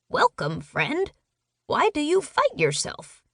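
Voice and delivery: lightly squeaky bird voice; a gentle high bird speaking calmly; high-pitched bird. Acted. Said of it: "Stan's high-pitched bird impression".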